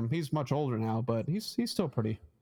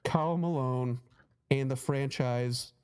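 slow mock pledge, Boston accent; a singer, Boston accent. Comic imagines mom pledging to the Jazz, slow Boston accent. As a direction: declare it solemnly in an imitated Boston accent. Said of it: "he's got a really thick Boston accent".

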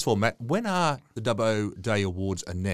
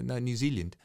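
imitated New Zealand accent, badly done; poor New Zealand accent; 3 semitones higher, 3 dB quieter than usual. Host retelling a runner's answer, in a poor New Zealand accent. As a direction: have a weak stab at a New Zealand accent. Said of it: "That's a very poor New Zealand accent".

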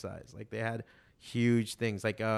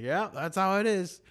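quoting a mentor; 8 semitones higher, 4 dB louder than usual. Retold or imitated. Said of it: "and he's like".

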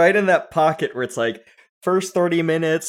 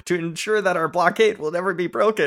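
mock pompous senator; 6 semitones higher, 4 dB louder than usual. Mocking prequel dialogue.

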